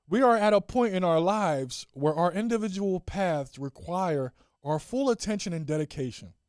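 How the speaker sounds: mock-official read; statement reading. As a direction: read it out as a grand announcement. Reads joint statement aloud.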